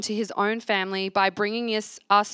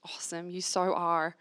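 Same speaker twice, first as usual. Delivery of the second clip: whisper; 3 semitones lower, 6 dB quieter than usual. Real, not acted. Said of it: "whispered affirmation".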